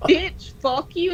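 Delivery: slow mock tough line, still laughing; repeating the demo for friends, slow and laughing. Shown as a demonstration. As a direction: say it slow, giggling through it.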